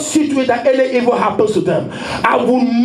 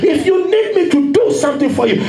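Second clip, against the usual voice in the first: fervent preaching; 3 semitones higher than usual. Acted. Pastor to congregation, voicing a devoted follower in full preaching cry. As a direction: pour it out to the congregation.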